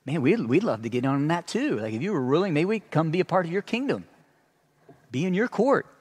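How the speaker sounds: mild mock envy, tongue in cheek; sarcastic wish. Paul teasing the Corinthians about their kingdom, lightly sarcastic. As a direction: pretend to long to join them, lightly ironic. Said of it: "here's the sarcasm".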